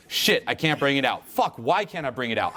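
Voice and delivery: low-pitched, understated frustration; mildly fed up with yourself; frustrated self-talk. Shown as a demonstration. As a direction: demonstrate private exasperation, voice dropped low. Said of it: "what I'd be feeling is".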